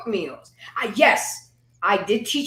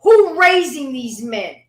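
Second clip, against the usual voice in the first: louder, higher, slow pointed retort; retold comeback; 5 semitones higher, 6 dB louder, slower than usual. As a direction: fire the question back at them, slow and loud. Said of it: "I said".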